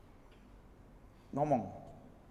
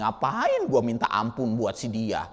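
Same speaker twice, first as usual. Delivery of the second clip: grudging complaint; 11 semitones lower, 4 dB quieter than usual. Retold or imitated. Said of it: "Kita mah nggak pernah ngingetin".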